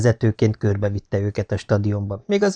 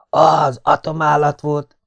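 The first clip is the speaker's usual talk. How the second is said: put-on boy's voice; 5 semitones higher, 4 dB louder, slower than usual. A narrator's reading. Nathan's excited boy voice.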